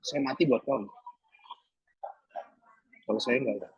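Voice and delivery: soft, low, tender question; gentle voice of God. Retold or imitated. God speaking softly to the grieving pastor, tender and low. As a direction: ask it gently, almost hushed. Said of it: "kayak suara ngomong lembut".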